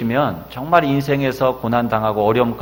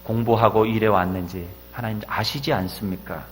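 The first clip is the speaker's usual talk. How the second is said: loud, higher, desperate prayer to God; crying out in prayer; 4 semitones higher, 7 dB louder than usual. Retold or imitated. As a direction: pour it out as a desperate cry to heaven. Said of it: "부르짖어 기도합니다". (하나님께 절규하듯 높고 크게 부르짖는 기도)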